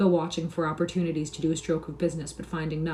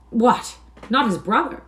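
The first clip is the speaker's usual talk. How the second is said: shocked surprise; 6 semitones higher, 6 dB louder, slower than usual. A narrator's reading. Stranger startled.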